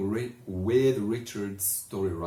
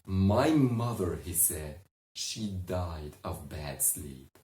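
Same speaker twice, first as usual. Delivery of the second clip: breaking down. Acted. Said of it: "he broke".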